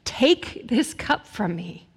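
Jesus pleading with the Father in the garden, anguished cry; anguished plea. Retold or imitated. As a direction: beg not to face what's coming. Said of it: "he cried out to his Father".

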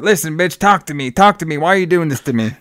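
high, agitated mock demand; Carson going crazy. Retelling Carson demanding the vampire talk to him, agitated. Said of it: "going crazy".

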